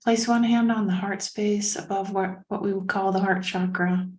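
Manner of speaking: calm meditation guidance with long pauses; unhurried, even-voiced meditation leader; guided meditation. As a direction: lead a breathing meditation, leaving space between phrases.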